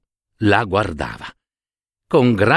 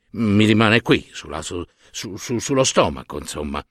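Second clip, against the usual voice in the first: halting, repeating, dropping much softer; fumbling excuse; 4 dB quieter than usual. Acted. Husband making excuses about prosciutto on his stomach, fumbling and hesitant. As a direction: stumble over the words and fade away.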